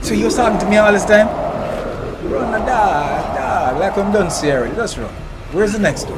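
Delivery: frantic yelling. Real, not acted. Fleeing the monster.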